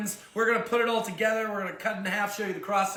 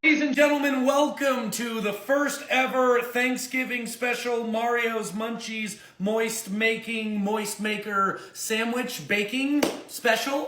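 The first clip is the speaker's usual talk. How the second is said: show announcer; 4 semitones higher than usual. Acted. Announces the cooking special.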